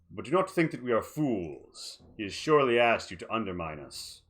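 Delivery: smug, scheming villain voice; mustache twirling villain. Acted. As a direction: purr it with smug menace. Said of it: "Duraza twirls his mustache and says".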